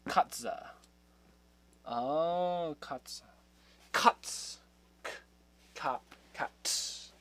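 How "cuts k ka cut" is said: Cuts whispered with a hard K; breathy hard K in Cuts; hard sounding out. Shown as a demonstration. Practicing the German for cat, whispered with a hard K. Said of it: "I'm doing it hard".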